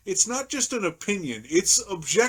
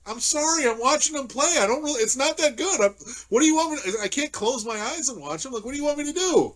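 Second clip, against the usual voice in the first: exasperated retort; 5 semitones higher than usual. Retold or imitated. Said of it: "I'm like".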